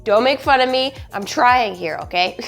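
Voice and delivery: hoarse, sick goose-like honk. Real, not acted. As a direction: talk through the bronchitis rasp. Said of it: "so I sound kinda like a goose".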